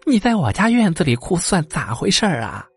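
a hint of a rustic old wife asking; old wife's voice. Old wife confronting the crone, lightly voiced and puzzled.

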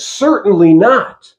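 slow, weighty Certainly not; emphatic. Shown as a demonstration. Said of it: "It's emphatic".

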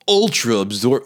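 woman's voice ad read. Retold or imitated. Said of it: "actually, it's a woman's voice".

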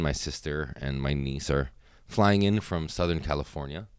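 talking between sips of a drink; while sipping a drink. Real, not acted. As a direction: speak with a drink at your lips. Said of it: "I'm trying to drink this and I'm leaking out of my bottom lip".

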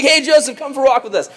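high, sing-out fake friendly call; acted giddy invitation; so excited. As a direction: lure him over eagerly. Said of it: "so excited about this".

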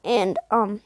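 mid-yawn, words stretched. Real, not acted. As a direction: talk through a yawn. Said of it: "sorry, I yawned".

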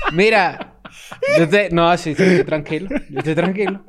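slurred tipsy insistence, breaking into laughs; laughing drunk act. Pretend. Imitating himself drunk, laughing through it. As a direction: play the drunk who swears he's fine. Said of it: "imítate a ti borracho".

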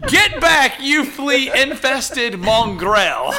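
drawn-out, deliberate lyric recital; lightly hammed-up lyric quote; quoted song lyric. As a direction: recite it very slowly, word by word. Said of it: "the part where he said".

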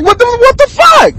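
high, cracking yell of disbelief; imitating a stunned what-the-hell cry; shocked outburst. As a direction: shriek it like you can't believe it. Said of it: "And we was like".

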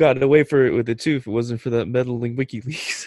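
fast, laughing cartoon villain line; mock villain grumble, laughing; Scooby-Doo villain. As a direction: spit it out like a foiled cartoon crook. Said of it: "Scooby-Doo".

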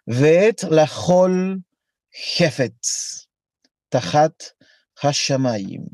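slow chanted Hebrew, stretching "Ve'et"; Hebrew recitation. Shown as a demonstration. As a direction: recite "Ve'et lachol hefetz tahat hashamayim" slowly like scripture. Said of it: "Así suena".

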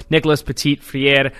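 clumsy attempt at a French accent on the name; botched French accent. Real, not acted. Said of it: "what kind of accent you put on that".

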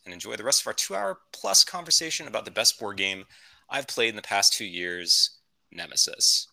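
lightly voiced pilot making an in-flight announcement; a hint of a captain on the intercom; airline captain. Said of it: "This is your captain speaking".

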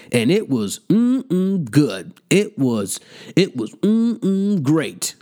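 slow, drawn-out mock relish; mocking savoring. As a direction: savor each mm-mm like food, teasingly. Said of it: "and you was like".

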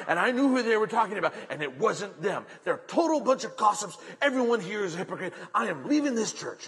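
lightly acted indignant tirade; huffy complaint. Woman accusing churchgoers of gossip, in an acted huff. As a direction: rattle off grievances in mock outrage, rising at the end. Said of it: "all huffy and puffy".

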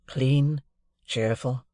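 plain reading voice

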